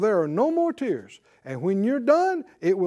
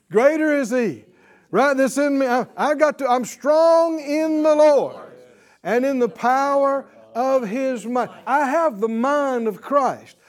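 louder triumphant declarations; bold confession; 3 semitones higher, 5 dB louder than usual. Acted. Believer answering how you doing, loud triumph. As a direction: proclaim victory with full force. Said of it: "You're going".

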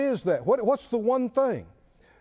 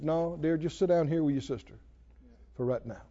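low, soft, kindly telling; gentle reassurance; 5 semitones lower, 5 dB quieter than usual. Acted. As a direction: soothe her quietly, as to someone dear. Voicing Jesus gently calming Martha.

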